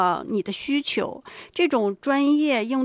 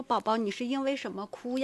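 a soft, gently questioning parent voice; gentle coaxing; 9 dB quieter than usual. Acted. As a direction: softly guide a child to explain. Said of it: "一边引导他说".

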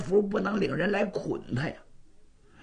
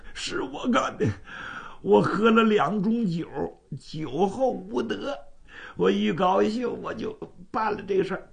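sheepish confession; 5 semitones higher than usual. Acted. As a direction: own up like a caught drunkard.

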